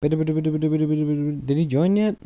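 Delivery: drawn-out impatience. Real, not acted. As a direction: stretch every word out waiting. Waiting impatiently for a guest.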